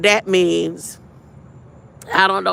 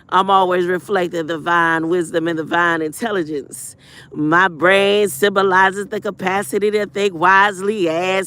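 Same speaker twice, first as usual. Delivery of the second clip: lower, steady prayerful recitation; affirmation recitation; 3 semitones lower than usual. Acted. Streamer reciting affirmations to a troll in chat. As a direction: recite it like a creed, grounded.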